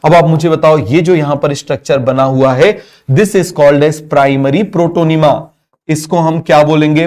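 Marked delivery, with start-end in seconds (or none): 3.1-5.3 slow, word-by-word note dictation; slow classroom dictation. Shown as a demonstration. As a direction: spell it out slowly so students can write. Dictating a definition.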